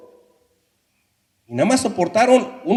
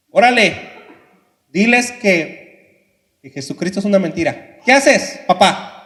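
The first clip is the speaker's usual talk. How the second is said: taunting soldier; 3 dB louder than usual. Acted. Soldier pressures the father.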